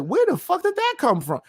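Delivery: high, baffled disbelief; confused at a random remark. Retold or imitated. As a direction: ask it like it came from nowhere. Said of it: "And I'm like".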